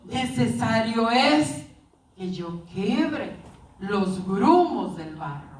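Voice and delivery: low, slow, measured answer; potter's reply. Retold or imitated. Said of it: "Y le dijo".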